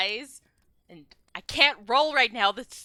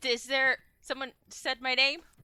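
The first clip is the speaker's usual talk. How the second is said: usual speaking voice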